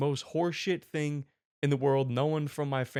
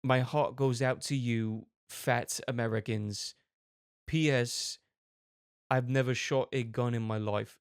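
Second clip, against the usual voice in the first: mock sympathy; slower than usual. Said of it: "They go".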